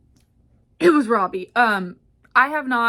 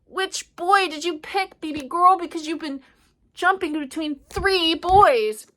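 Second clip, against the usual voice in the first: pitched-up nosy bestie drawing it out; gossipy best friend; 7 semitones higher, 4 dB louder than usual. Acted. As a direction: needle her about the boys, sing-song. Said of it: "her best friend's like".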